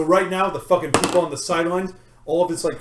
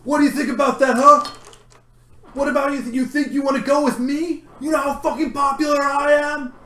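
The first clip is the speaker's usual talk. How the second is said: yelling; 5 semitones higher than usual. Acted. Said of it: "They yell".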